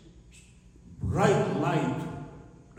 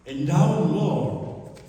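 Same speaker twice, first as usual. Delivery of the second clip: proclaimed address; 6 dB louder, slower than usual. Acted. Preacher proclaiming scripture.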